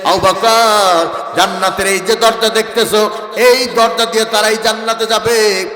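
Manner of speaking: forceful, repetitive sermon cadence; preaching. Acted. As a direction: declaim each promise firmly, line by line. (জোরালো ওয়াজের ভঙ্গি)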